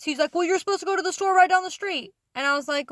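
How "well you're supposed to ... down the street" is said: imitating a scolding boss, pitched up; mock exasperation, voice raised high; exasperated boss. Boss corrects new worker about the errand, exasperated.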